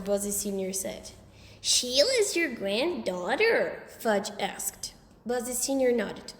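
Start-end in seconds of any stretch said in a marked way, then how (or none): 1.6-3.8 put-on little kid voice. A narrator's reading. Fudge surprised.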